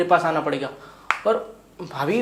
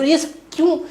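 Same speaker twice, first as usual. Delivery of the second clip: high, raised-voice questioning; loud protest; 8 semitones higher, 6 dB louder than usual. Acted. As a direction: demand a reason, loud and high. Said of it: "पहले तो आप धीरे बोलो". (ऊँची आवाज़ में सवाल)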